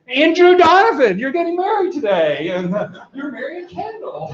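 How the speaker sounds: high, excited announcement; excited recognition. Retold or imitated. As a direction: blurt it out like a psychic. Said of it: "and I said".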